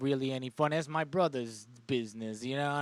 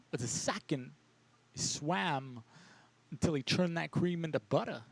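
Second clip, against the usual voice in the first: mock solemn parable; 4 dB quieter than usual. Mock wise parable, slow.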